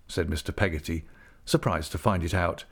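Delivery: ordinary delivery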